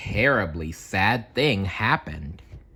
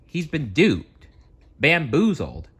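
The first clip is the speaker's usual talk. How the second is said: mock outrage; 6 semitones higher than usual. Narrator ranting comically about poor Mickey. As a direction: play up the silly words.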